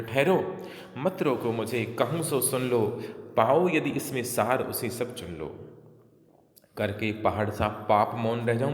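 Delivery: measured, insistent declamation; verse recitation. Acted. Kaikeyi asking the assembly to let her speak, measured recitation. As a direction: recite the verse slowly and firmly.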